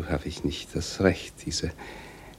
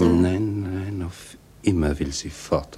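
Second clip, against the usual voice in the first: louder, bursting out with Nein; sudden anguished outburst; loud denial; 3 semitones higher, 6 dB louder than usual. Acted. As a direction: cry out the denial.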